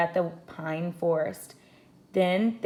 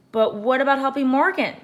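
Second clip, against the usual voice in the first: Annie pleading; 7 semitones higher, 5 dB louder than usual. A narrator's reading. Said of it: "said Annie".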